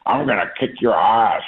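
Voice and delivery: light mock Australian accent, barely shifted; hint of an Australian accent on a threat. Teammate's Australian accent taunting an opponent, lightly imitated. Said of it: "in his, in his Australian accent".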